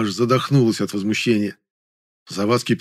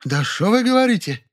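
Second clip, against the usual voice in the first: very high Jewish intonation; mocking Jewish-style retort; Jewish manner; 11 semitones higher than usual. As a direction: sing it with Yiddish lilt. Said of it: "На еврейский манер ответила".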